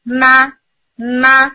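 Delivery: ما said twice, short and clear, lips parting; lip-parted syllable demo. Shown as a demonstration. Tajweed teacher shows students the parting sound ما. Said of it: "جب آپ انہیں part کرتے ہیں تو sound آتی ہے".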